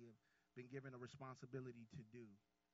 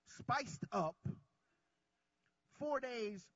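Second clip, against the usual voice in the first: rising, louder sermon climax; preaching at full force; 4 semitones higher, 6 dB louder than usual. Real, not acted. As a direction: build the congregation toward the climax.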